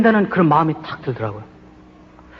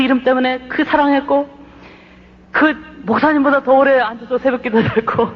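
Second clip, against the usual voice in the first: arguing with God; 4 semitones higher than usual. Retold or imitated. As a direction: plead your case to God as if wronged. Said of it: "하나님하고 따지는 거예요".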